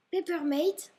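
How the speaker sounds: Papermate said with an English accent. Real, not acted. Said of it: "Désolée pour l'accent". (accent anglais sur Papermate)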